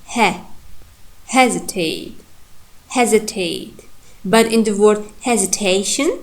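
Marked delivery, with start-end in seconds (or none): 1.3-3.8 "Hesitate" with main stress on HE; stress on first syllable. Shown as a demonstration. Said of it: "the first, uh, syllable here primary".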